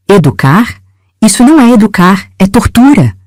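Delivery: high, indignant outburst; a touch of outraged disbelief; outraged retort. A narrator's reading. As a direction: throw the word back at him in outrage. Outraged reply to uncle.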